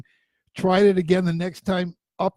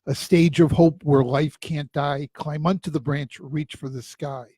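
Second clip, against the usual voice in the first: poem recitation; 2 semitones lower than usual. Shown as a demonstration. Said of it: "I wrote a poem".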